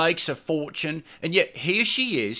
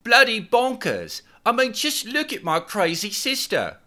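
yelled out. A narrator's reading. Girlfriend yells about her crazy sister, high incredulous yell. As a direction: shout it at him in disbelief. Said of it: "she yelled out".

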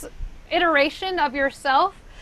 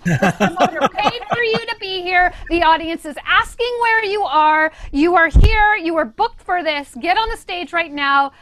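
forceful scolding pep talk; 3 semitones higher, 3 dB louder than usual. Retold or imitated. Retells bandmate's forceful pep talk.

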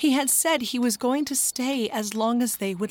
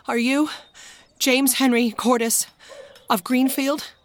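panting; 4 semitones higher, 3 dB louder than usual. Acted. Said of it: "panted Henry".

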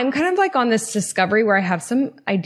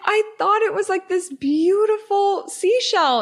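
embarrassed squeal; 11 semitones higher than usual. Retold or imitated. Explaining to her friend she thought it was a seashell, laughing. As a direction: squeak it out sheepishly.

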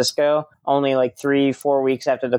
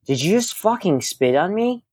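mock affronted question, pitched up; retold indignant demand; 5 semitones higher than usual. Headliner confronts the host who sprayed him, retold indignant demand. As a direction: demand it in offended disbelief.

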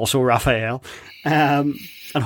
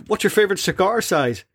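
a famous singer's voice; 13 semitones higher than usual. Retold or imitated. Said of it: "he goes".

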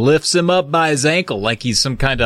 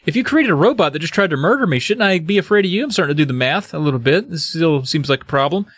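quick, higher-pitched rambling panic; flustered; 4 semitones higher, faster than usual. Acted. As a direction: play a mildly frantic character piecing it together. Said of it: "Jerry's all a mess".

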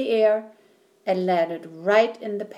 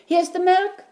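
loud, much higher shout; 10 semitones higher, 5 dB louder than usual. A narrator's reading. Boy shouts to his mother with the milk, high loud shout. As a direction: yell it out with glee. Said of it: "shouted Jack".

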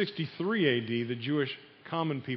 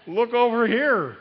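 high, loud, slow sales pitch; Jewish businessman; 7 semitones higher, 6 dB louder, slower than usual. Acted. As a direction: reel the customer in like a market hawker. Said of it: "being a good Jewish businessman".

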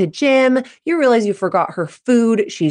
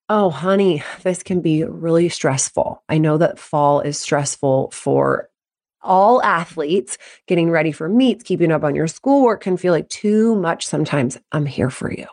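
lower, unhurried reassurance; supportive parent; 3 semitones lower than usual. Acted. Mom responding to stressed athlete, tenderly reassuring. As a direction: soothe gently, softening to the last line.

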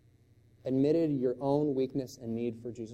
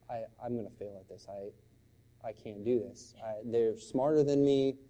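teary daughter; 2 semitones lower than usual. Retold or imitated. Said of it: "And she's crying at this point".

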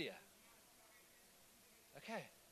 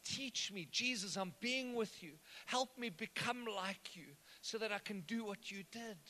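sample prayer. Shown as a demonstration. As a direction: pray it gently and sincerely. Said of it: "shoot a prayer to heaven".

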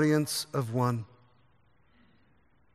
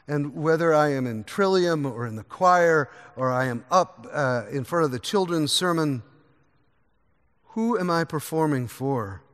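ordinary talk

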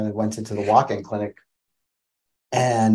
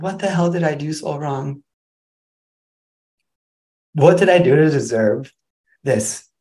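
furious; 5 semitones higher, 3 dB louder than usual. Retold or imitated. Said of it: "I was just so furious".

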